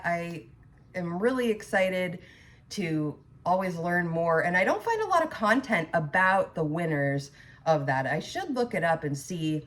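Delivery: talking around a wad of gum; chewing gum. Real, not acted. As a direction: chew gum while you talk. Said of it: "I have gum in my mouth".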